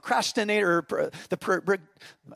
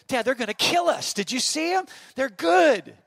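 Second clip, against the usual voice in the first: put-on higher, anxious kid voice rising to a laugh; worried kid; 8 semitones higher, 7 dB louder than usual. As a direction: plead with dad, half laughing. Son fears the older players.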